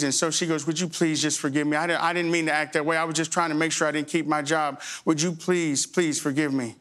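sincere apology. Retold or imitated. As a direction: apologize humbly. Clerk apologizing.

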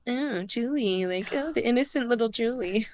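sweetly jealous sigh over Julie; jealous Rachel. Retold or imitated. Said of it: "That was a really good jealous Rachel impression".

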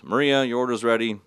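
imitated cashier's order call. Acts cashier calling out orders.

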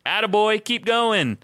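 high, bright encouraging cheer; cheery Jesus voice. Retold or imitated. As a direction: cheer him on like a proud coach. Imagined Jesus cheering on bad talk.

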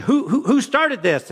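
mock-confront two squabbling kids, voice jumping up; acted-out dad breaking up a fight; exasperated parent demand.

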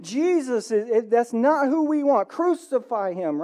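rally like an angry crowd demanding blood; crowd yelling. Retold or imitated. Preacher voicing the crowd at Pilate's trial, mock yelling. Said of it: "And the crowd yells".

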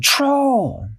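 high frightened shout of the word; scared cry. Acted. Dashy warning her friends, high frightened cry. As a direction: blurt it in fear. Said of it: "Dashy said".

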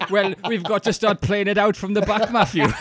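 loud, high-pitched comic Welsh voice; hammed-up Welsh, pitched high and on the edge of laughter; mock Welsh accent. Comedian playing John Hartson in the bedroom, mock Welsh accent. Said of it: "if my missus did a Welsh accent".

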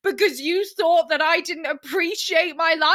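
imagined furious rant at the host; indignant. Retold or imitated.

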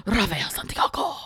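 low sultry name drop; sexy voice. Acted. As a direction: purr the name seductively. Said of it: "I was trying to be sexy".

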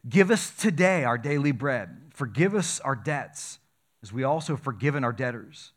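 measured scripture reading, slowing on the key words; solemn reading of the Lord's Prayer. Shown as a demonstration. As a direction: read the prayer with reverent weight. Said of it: "I'm gonna read it out of Matthew".

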